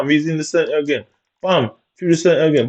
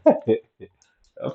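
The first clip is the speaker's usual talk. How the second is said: slow, laughing disbelief; 4 dB quieter than usual. Real, not acted. Gamer laughing at his own missed pass, slowly.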